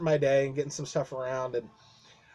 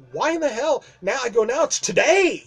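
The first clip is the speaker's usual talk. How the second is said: exasperated inner thought, higher and louder; 8 semitones higher, 5 dB louder than usual. Retold or imitated. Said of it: "I'm like".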